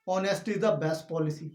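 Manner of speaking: slow, careful teaching read; slow model sentence. Shown as a demonstration. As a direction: dictate the proverb word by word. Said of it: "तो honest बोलते हैं".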